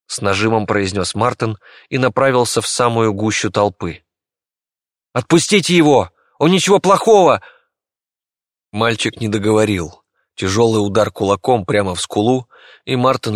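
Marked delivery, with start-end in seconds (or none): 5.1-7.4 loud, higher desperate shout. Acted. Martin shouting at the mob beating the doctor. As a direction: yell at the crowd to stop.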